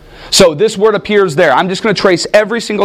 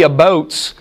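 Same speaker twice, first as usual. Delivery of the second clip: put-on Canadian accent; 3 semitones lower than usual. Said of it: "there are certain ways that we can see".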